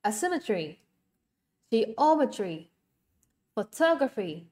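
"Asymmetry, geometry, photography" stressed on SYM, OM, TOG; second-syllable stress. Shown as a demonstration. Teacher reviews the answer list, second-syllable stress. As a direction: separate words, each falling after its stressed second syllable. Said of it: "âm số hai luôn".

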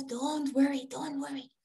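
soft, soothing reassurance; calm a frightened creature, quietly; reassuring yogi. Acted. Yogi to the hunted mouse, softly reassuring.

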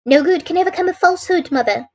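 high, clear voice of a daughter; calm, clear. A narrator's reading. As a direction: speak up calmly and clearly. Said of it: "spoke in a calm, clear voice".

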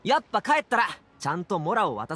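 forceful insistence; insistent. Acted. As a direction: put your foot down firmly. Insists on repaying friends' money.

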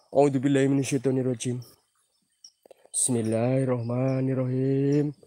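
whispered Bismillah; whispered prayer. Real, not acted. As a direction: murmur it under your breath, scared. Nervous prayer during horror.

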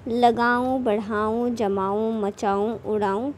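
लगाऊं बढ़ाऊं जमाऊं मचाऊं उड़ाऊं with a light nasal ऊं ending, said slowly; chandrabindu word demo. Shown as a demonstration. Teacher models chandrabindu words for the class, slowly. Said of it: "ज़रा ध्यान दीजिए".

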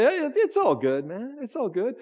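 high, breezy brush-off; dismissive reassurance. Retold or imitated. Brushing off someone who questions your actions, high and breezy. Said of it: "you try to tamp them down and you say".

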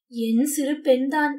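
slow, understated sorrowful pride; sad pride. Acted. Parsons tells Winston his daughter betrayed him, slow sad pride. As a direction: say it slowly, proud yet grieving. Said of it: "துயரம் ததும்பிய ஒரு பெருமையுடன்".

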